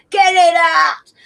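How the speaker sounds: loud, high, drawn-out yell; re-enacted shout. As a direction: yell it slowly like at a birth. Acting out own shout at birth.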